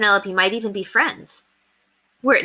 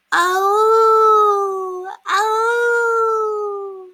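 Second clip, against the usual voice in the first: high, loud howling cry; wolfish howl; 5 dB louder than usual. Acted. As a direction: howl like a wolf cub. Children howl louder.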